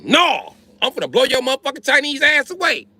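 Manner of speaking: high-pitched mock yell of a threat. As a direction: ham up a furious threat. Acted threat in standoff.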